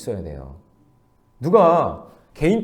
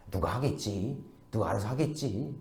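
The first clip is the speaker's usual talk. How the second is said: soft, lowered voice shrugging it off; hushed evasiveness; 6 semitones lower, 13 dB quieter than usual. Acted. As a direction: pass the buck quietly. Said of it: "우리는 쉬쉬해요". (쉬쉬하듯 작고 낮게)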